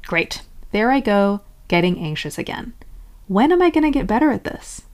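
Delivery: acted exasperation, rising at the end; frustrated. Annoyed at yourself for being anxious, mildly frustrated. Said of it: "Getting frustrated would sound like".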